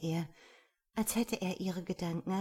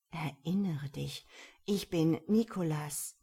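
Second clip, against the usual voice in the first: firm, measured insistence; emphatic; 3 dB louder than usual. A narrator's reading. Man urges the woman to remember him, emphatic. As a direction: press each phrase home. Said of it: "Er sagte das mit solchem Nachdruck".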